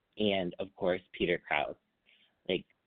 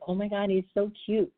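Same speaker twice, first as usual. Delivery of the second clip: higher and louder, giddy gush; gushing fangirl; 11 semitones higher, 5 dB louder than usual. Retold or imitated. Watching him care for the sick Hannah, a giddy fangirl gush. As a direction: gush like a smitten fan. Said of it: "And I'm like".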